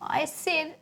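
put-on high, loud, drawn-out child's wail; imitated breakdown wail. Daughter confessing to mum about her brother, wailing. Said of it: "and just broke down".

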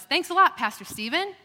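high, loud mock gratitude; sarcastic thanks. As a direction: pitch it up in playful exasperation. Mock complaint to absent colleague.

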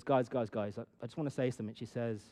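confiding sister. Retold or imitated. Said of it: "My sister used to be a teacher".

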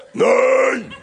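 put-on loud, high furious teenage yell; teenager shouting. Teenage son roars at his parent about church: furious yell. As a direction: roar no at the parent.

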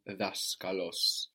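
daskalos stressed on DAS; stress third from end. Shown as a demonstration. Teacher explains original accent, stress on DAS in daskalos. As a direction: land on the first syllable of daskalos. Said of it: "third from the end".

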